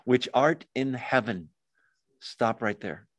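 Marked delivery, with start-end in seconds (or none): 0.1-1.5 slow prayer. Shown as a demonstration. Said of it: "say it slowly".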